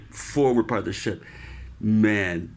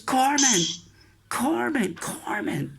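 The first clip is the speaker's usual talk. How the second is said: higher repeated summoning call; calling the corpsman; 14 semitones higher, slower than usual. Retold or imitated. Chief calling the corpsman over, urgent. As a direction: call the medic across the deck. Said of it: "He goes".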